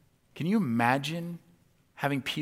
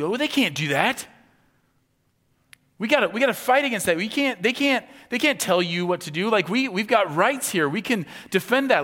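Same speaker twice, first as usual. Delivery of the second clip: loud, fast, high-pitched protest; rally the troops, outraged and loud; indignant outcry; 8 semitones higher, 9 dB louder than usual. Pretend. Congregation imagining a defiant response, indignant shout. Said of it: "a lot of our response would be".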